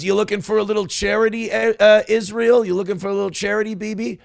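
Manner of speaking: a lightly voiced fast Worm taunt; Worm impression. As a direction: taunt in a quick, high hustler voice. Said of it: "he goes".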